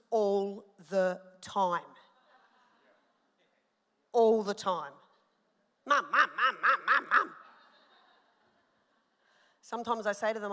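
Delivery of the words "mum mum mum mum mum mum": playful imitation of children calling Mum, laughing through it; kids nagging mum. Pastor imitating her kids calling for mum, laughing. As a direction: mimic a kid pestering, half laughing.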